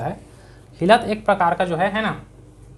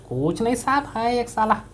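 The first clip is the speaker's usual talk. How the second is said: offhand fugitive; 5 semitones higher than usual. Retold or imitated. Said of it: "तो बोलता है".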